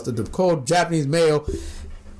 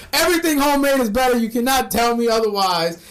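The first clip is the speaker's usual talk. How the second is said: emphatic; 5 semitones higher, 4 dB louder than usual. Real, not acted. Emphatic opinion.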